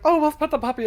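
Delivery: high, loud mock cooing; hammed-up delighted gush; gushing over puppy. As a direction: squeal like you've seen a cute puppy. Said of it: "they're like".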